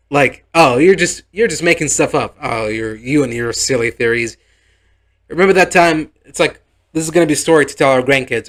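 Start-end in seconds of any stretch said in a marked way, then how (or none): 0.5-6.1 dismissive bride. Retold or imitated. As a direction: laugh him off as a silly husband. Bride laughs off the accusation.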